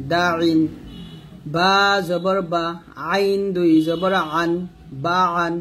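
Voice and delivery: measured recitation, long-held letter names; slow, even Qaida chant for learners to follow; Quran spelling drill. Shown as a demonstration. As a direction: spell it out rhythmically, syllable by syllable. Leads repeat-after-me spelling drill.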